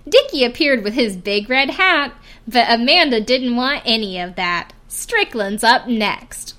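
mock TV voiceover, slowing on the last line; rhyming show voiceover. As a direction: read it like a reality-show announcer, rhyme landing. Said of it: "we get a voiceover".

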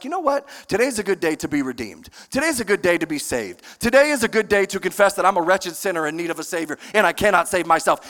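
fast, offhand mock musing; breezy pretend breakfast thought; lightly mocking casual Saul. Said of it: "woke up that morning and was like".

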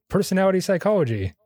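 announced high and bright; big reveal. Acted. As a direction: deliver it like a punchline. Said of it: "drum roll please".

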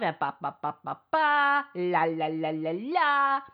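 sing-song ba ba la la dismissal; mocking sing-song nonsense syllables; mocking babble. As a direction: babble it off like his empty pleas. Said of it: "abuser's remorse with me where he's crying".

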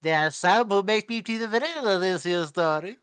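high, loud mock Austrian voice; hammed-up fake Austrian accent, pushed up and out; bad Austrian accent. Mocking an American actor's attempt, bad Austrian accent. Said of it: "American guy doing an Austrian voice".

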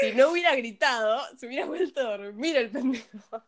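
laughing through the words; half-laughing mock complaint; amused retort. Real, not acted. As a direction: joke it out while giggling. Laughing at her own retort.

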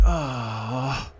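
soft exasperated exhale; quiet sighed "oh"; imitated sigh. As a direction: mimic a let-down sigh. Woman reacting to being refused a ride.

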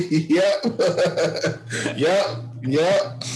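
yeps squeezed out between laughs; laughing. Real, not acted. Co-host reacting to a listener's comment, laughing. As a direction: keep agreeing while cracking up.

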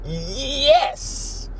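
high, far-off grudging voice; begrudging yes. Retold or imitated. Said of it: "stared at him begrudgingly and went".

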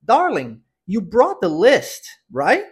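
"brought" and "right" with swallowed T, "right?" rising; "list" near "lest", questioning "right?" at the end; full-phrase pronunciation model. Shown as a demonstration. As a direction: model it slowly, stretching "brought the list", then lift "right?". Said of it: "vou repetir pra você agora completa".

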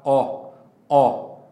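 "ó" with a wide open vowel. Shown as a demonstration. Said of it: "com esse ó bem aberto".

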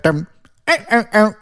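high squeaky honking noises, ow ow ow; mock horn honks. Telling a friend about the Bill Bailey horn riff, high honking mimic.

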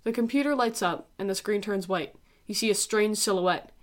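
calm narrator reading her own essay; dramatic essay reading. Acted.

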